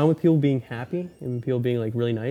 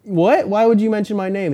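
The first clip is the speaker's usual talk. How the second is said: mock baffled; 7 semitones higher, 3 dB louder than usual. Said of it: "It's like".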